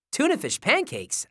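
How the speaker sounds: high, puzzled repeat; incredulous echo. A narrator's reading. Nate hears of tuna fish pancakes, incredulous. Nate questions the odd food.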